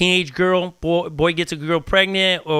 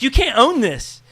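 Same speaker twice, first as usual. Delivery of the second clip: firm; 9 semitones higher, 4 dB louder than usual. Retold or imitated. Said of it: "I was like".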